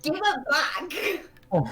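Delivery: high, slow mock yell; mock shout. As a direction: stretch it out in a loud playful yell. Playful grab at the line.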